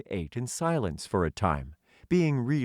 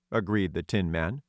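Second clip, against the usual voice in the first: ordinary delivery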